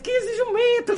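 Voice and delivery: high, laughing, near-crying squeal; laughing mock cry. Quoting fans repeating her phrase, laughing high squeal. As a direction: shriek it through tears of laughter.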